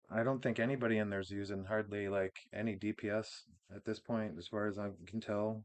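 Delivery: dry, deadpan sarcasm; sarcastic. Real, not acted. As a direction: say it straight-faced, meaning the opposite. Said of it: "I'm being sarcastic".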